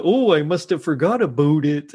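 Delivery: lightly hammed-up Canadian accent; fake Canadian accent. Jake pretending on the walkie, fake Canadian accent. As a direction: imitate a badly faked Canadian accent. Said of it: "like, a fake Canadian accent".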